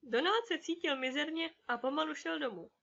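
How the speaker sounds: ordinary delivery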